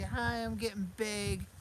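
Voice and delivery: slow, high, loud pretend puppy voice; voicing the dog. Owner speaks for the dog saying hi, high pet voice. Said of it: "you wanna say hi? Say".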